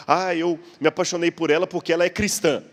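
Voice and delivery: acted lover's answer, lifted in pitch; eager justification. Man explaining why he fell in love, eager justification. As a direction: offer the reason brightly, lightly acted.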